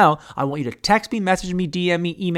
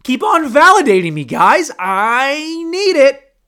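begging; 10 semitones higher, 7 dB louder, slower than usual. Pretend. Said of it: "tell me that you love me".

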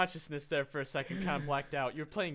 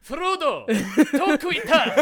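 high, loud squeal of a name; excited fan cry; 8 semitones higher, 9 dB louder, much slower than usual. Pretend. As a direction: shout it like a giddy fanboy. Fantasy-fan outburst.

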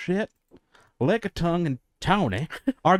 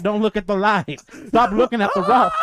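loud, raised warning; acted alarm, pitched up; urgent warning; 3 semitones higher, 4 dB louder than usual. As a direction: shout them away from danger. Acted warning during the disaster.

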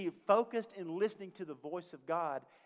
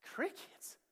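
whispered disbelief; 14 semitones higher, 4 dB quieter than usual. Retold or imitated. Businessman disbelieving in retold story.

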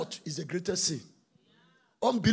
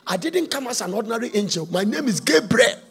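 angel's rebuke; 4 dB louder than usual. Acted. Gabriel rebuking doubting Zachariah, building chanted shout. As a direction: proclaim your rank to the doubter. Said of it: "He said".

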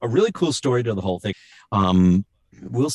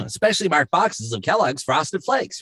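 higher-pitched commercial tagline; tagline read; 8 semitones higher than usual. Retold or imitated. Voice actor demonstrating his cereal tagline, commercial read. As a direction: read it like a cereal-box announcer. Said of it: "I was doing taglines".

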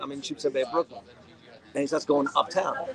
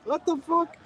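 mock disbelief; 13 semitones higher, slower than usual. Retold disbelief at cab driver.

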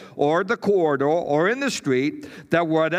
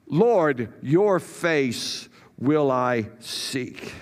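slow prayerful vow; 3 semitones lower, much slower than usual. Acted. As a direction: pray it slowly, as one body. Congregation echoes back prayer.

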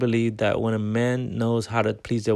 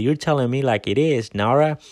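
put-on sweet little old lady voice, a bit higher; darling little old lady; 3 semitones higher, 4 dB louder than usual. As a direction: chirp it like a hip grandma. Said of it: "In a darling little old lady voice".

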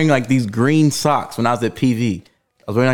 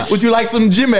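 higher, mock British offer; British accent; 6 semitones higher than usual. Teasing offer to the room, British accent. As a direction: put on a jokey British accent. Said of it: "say it in a British accent".

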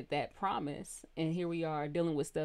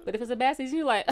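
mock exasperated; 8 semitones higher, 7 dB louder, much faster than usual. Mock bad-season reaction.

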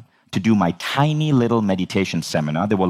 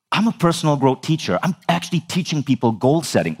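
retold indignant protest, pitched up; angry; 5 semitones higher than usual. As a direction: defend your credentials with mild outrage. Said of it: "now I'm fucking angry".

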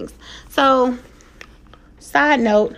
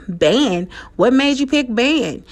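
mock disbelieving question; imitating incredulous dad; 2 semitones higher, slower than usual. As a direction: question her choice like a doubting dad. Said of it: "Just like that. I'm not over-exaggerating".

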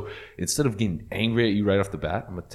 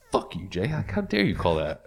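mock angry retort. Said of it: "instead of getting angry at you".

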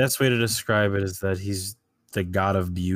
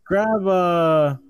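commanding; 11 semitones higher, 6 dB louder than usual. Acted. King commands servant.

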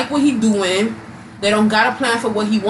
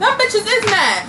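imitating boyfriend; 10 semitones higher than usual. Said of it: "I think them bitches hating".

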